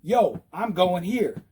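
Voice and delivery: slow, deliberate announcement; measured, insistent call; drastic signal. Shown as a demonstration. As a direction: spell out the turn to drivers. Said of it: "I'll go drastic".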